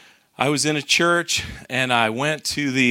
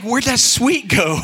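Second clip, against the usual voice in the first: higher, louder, slow, amazed and laughing; amazed she dropped the sweetness; louder, slow burst of amused disbelief; surprised; 9 semitones higher, 7 dB louder than usual. Retold or imitated. Stunned by the woman's answer.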